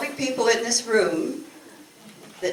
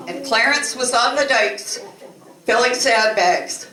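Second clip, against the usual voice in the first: laughing punchline. Real, not acted. Revealing the couple spent their wedding night sandbagging, laughing. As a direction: deliver the punchline while giggling.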